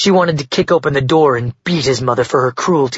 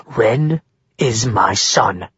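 a hint of venomous mother; 4 semitones higher than usual.

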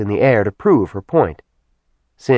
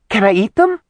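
put-on high, eager little girl voice; squeaky excited child; childlike demon voice; 13 semitones higher, 4 dB louder than usual. A narrator's reading. Simi character voice.

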